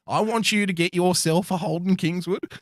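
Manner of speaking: lightly voiced broad Australian dad; mock seventies Australian dad. Telling his mate how to parent, a mild broad Australian dad. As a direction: drop the kids off like a seventies Aussie bloke. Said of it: "give it a bit of nineteen seventies Australian parentage".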